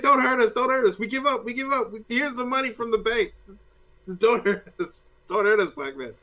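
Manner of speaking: mock panicked begging. Criminals surrendering to a black Batman, hammed-up panicked pleading. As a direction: beg like a terrified crook.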